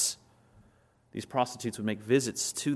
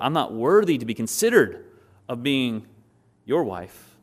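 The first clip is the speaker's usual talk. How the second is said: louder, insistent "not worthy"; emphatic contrast; 6 dB louder than usual. Acted. Ruth's earlier plea to Boaz, loudly emphatic. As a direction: push "worthy" and "considered" out loudly.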